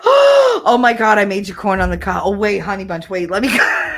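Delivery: flustered grandmother. Retold or imitated. Grandmother realizes her mistake.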